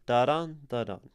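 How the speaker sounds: "Da-dun, da-dun" as weak-STRONG pulses; iambic beat. Shown as a demonstration. Teacher sounding out the iambic structure, weak-strong beat. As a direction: tap out "Da-dun" with the weight on "dun". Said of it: "like, the exaggerated iambic structure".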